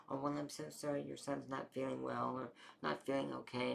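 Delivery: lightly sassy mock sympathy; put-on sassy apology, mildly imitated. Front desk person brushing off the worried mom, sassy. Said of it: "sassy way".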